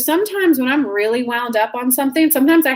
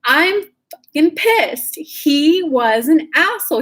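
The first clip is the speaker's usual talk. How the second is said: pissed off; 3 semitones higher than usual. Shown as a demonstration. Coach showing viewers how to admit they're pissed, venting angrily. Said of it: "when your mother fucking pissed".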